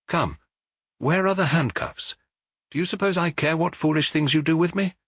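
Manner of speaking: the prophet defies the detectives, proclaiming like an orator; commanding orator. A narrator's reading. Proclaim it to the room like a preacher. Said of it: "the brain-shaking authority of an orator".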